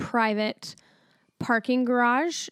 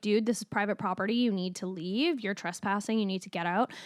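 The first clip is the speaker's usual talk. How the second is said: mild-mannered; 6 dB quieter, faster than usual. Retold or imitated. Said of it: "mild-mannered".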